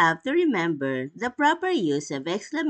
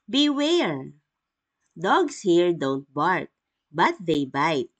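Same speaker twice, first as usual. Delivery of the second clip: warning exclamation. Shown as a demonstration. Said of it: "examples of exclamatory sentences".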